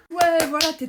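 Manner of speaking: loud, high cheer for the goal; cheering yell. Acted. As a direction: whoop it out as she scores.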